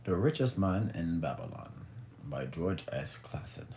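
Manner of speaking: lightly put-on British accent; measured British title read. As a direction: announce the title in a mild mock-British voice. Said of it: "do my little British accent".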